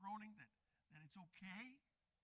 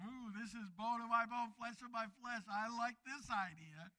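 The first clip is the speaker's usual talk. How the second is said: mock-delighted Adam, a bit louder; 3 semitones higher, 5 dB louder than usual. Preacher playing Adam first seeing Eve, delighted. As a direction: act out a man pleased with his new mate.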